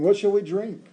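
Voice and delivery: high, loud mock whine; grumbling. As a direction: complain up at Moses like a crowd. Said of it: "the people grumbled against Moses".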